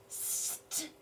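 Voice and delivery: "St-if" breathed softly in pieces; sounding out. Shown as a demonstration. Teacher decoding a word for children, breathy. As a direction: break "St-if" into sounds, voiceless. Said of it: "say that sound one time".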